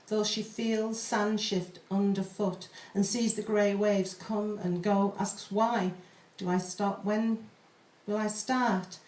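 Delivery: slow, measured poetry reading; poem reading. Acted. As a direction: read the pantoum slowly, hauntingly. Reads a pantoum aloud.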